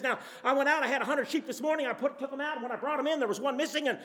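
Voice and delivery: tumbling words from a giddy shepherd; Shepherd John gushing to his neighbor about the found sheep; excited rush. Retold or imitated. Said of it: "he's all distraught, and he's excited".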